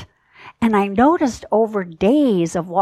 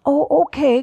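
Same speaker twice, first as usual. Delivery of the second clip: reluctant okay; 4 semitones higher than usual. Retold or imitated. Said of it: "kind of like this".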